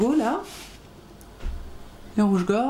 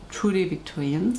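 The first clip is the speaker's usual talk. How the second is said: slow, careful English accent from a French speaker; attempted English accent. Shown as a demonstration. Correcting herself for viewers on the pattern brand, attempted English accent. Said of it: "J'aime pas le dire avec un accent pourri, même si mon accent est peut-être pas terrible, j'essaye".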